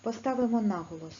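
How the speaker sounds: normal talking voice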